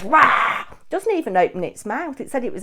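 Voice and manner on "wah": loud imitated toy-dinosaur roar "Wah!"; mock dinosaur roar. Mimicking the dinosaur toy for viewers, a loud mock roar. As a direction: belt out the cheap toy's roar. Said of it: "You press the button and it goes".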